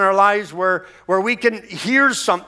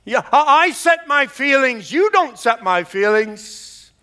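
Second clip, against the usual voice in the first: raised, emphatic declaration of faith; louder and stronger, with more faith; 6 semitones higher, 3 dB louder than usual. Shown as a demonstration. Preacher leading the congregation, declaring it louder and stronger. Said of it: "say it louder and stronger".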